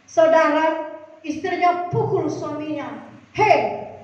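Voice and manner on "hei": mildly indignant wife confronting her husband; acted scolding, a touch of outrage; angry wife. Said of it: "Dia marah sekali". (istri marah, menegur suami)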